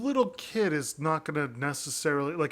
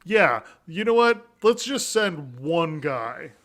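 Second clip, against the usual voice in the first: lightly voiced indifferent king; wishy-washy king. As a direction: shrug it off, can't be bothered. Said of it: "the king was, like, wishy-washy about it".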